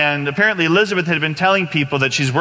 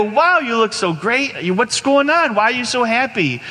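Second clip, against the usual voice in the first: high-pitched wowed reaction; delighted amazement; 8 semitones higher than usual. Retold or imitated. Young man to sick friend looking great, high delighted amazement. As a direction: gush with surprise, drawing out the wow.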